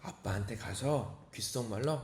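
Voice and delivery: soft, low and slow; retold secret whisper. Uncle instructs his niece how to approach dad, secretive hush. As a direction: coach a child in a confidential hush. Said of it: "제가 귓속말로 알려줘요".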